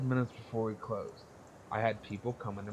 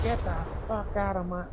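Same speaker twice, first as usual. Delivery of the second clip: higher, louder imitation of a furious boss; mock furious yell; 9 semitones higher, 4 dB louder than usual. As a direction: shout her out of the store, hammed up. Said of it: "she freaks out".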